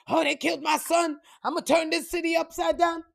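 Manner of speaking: acting out a father losing his mind; mock frantic outrage. Imitating a father whose son was killed, mock outrage. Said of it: "he's fucking losing his mind".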